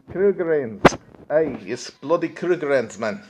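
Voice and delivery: hammed-up South African villain accent. Streamer imitating Lethal Weapon villains in a mock South African accent. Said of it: "nothing better than a big South African accent".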